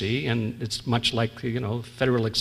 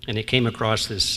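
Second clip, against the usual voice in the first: normal talking voice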